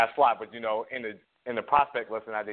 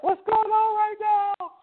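exasperated; 3 dB louder, much slower than usual. Retold or imitated. Stuck, exasperated vape quote.

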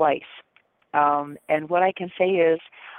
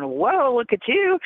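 impressed whoa; 5 semitones higher, much slower than usual. Retold or imitated. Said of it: "and I was going".

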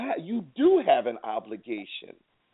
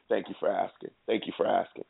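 mocking; 4 semitones lower, 4 dB quieter than usual. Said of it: "just mock 'em".

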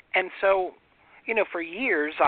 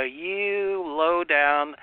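mock reacting; much slower than usual. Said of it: "I don't have to go".

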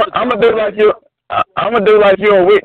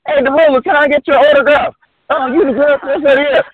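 imitated fans; 6 semitones higher than usual. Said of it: "when I be in the mall, them people".

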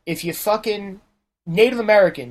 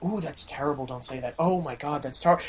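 low, soft mock scandalized voice; murmured tut-tutting, far softer and lower; hushed disapproval; 4 semitones lower, 11 dB quieter than usual. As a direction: imitate a hushed, shocked objection. Voicing girlfriend shocked at mild jokes.

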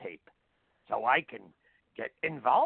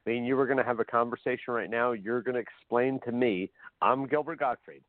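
Gilbert Gottfried impression. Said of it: "I don't do the Gottfried very well".

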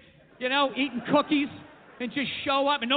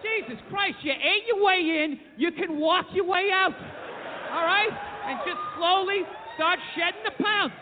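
ranting; 4 semitones higher than usual. Acted. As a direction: rail at them with mock fury. Ranting at fat people.

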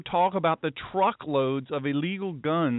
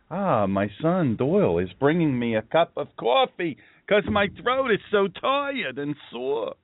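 hammed-up complaint. Mock grand aside about coffee.

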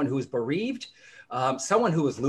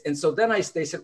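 ordinary talk

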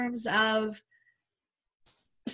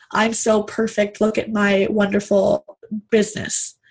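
smug perfect-boss voice; 4 dB louder than usual. Retold or imitated. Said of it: "the authority type".

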